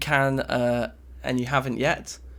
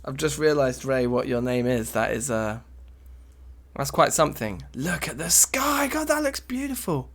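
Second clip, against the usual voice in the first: stoner awe; 2 semitones higher than usual. Pretend. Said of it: "I'm so baked right now".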